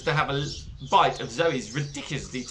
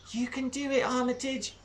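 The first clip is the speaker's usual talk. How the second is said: soft, high, hushed encouragement; whispering; 8 semitones higher, 5 dB quieter than usual. Acted. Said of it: "whispered Zoe".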